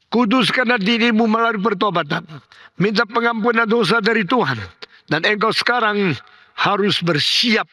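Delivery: high, insistent preaching; solemn exhortation. Retold or imitated. Pastor urging a dying man to repent, solemn exhortation. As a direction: urge him firmly to repent.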